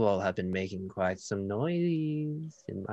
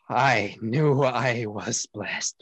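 slow, louder awestruck worship; awed reverence; 4 dB louder, slower than usual. Acted. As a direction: marvel in devotion. NPC kneels in awe.

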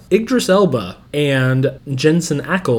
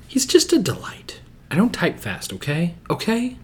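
muttered under breath; 4 semitones higher, 5 dB quieter than usual. Real, not acted. Muttering while searching.

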